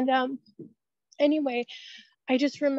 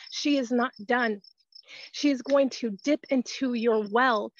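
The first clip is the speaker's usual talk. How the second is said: steady, earnest prayer spoken over the sick; fervent healing prayer. Real, not acted. Praying for Tracy's healing on a live church call, earnest prayer voice.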